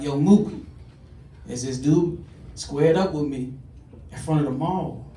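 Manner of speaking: calling the brother on the phone for help, urgent. Retold or imitated. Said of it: "I'm like".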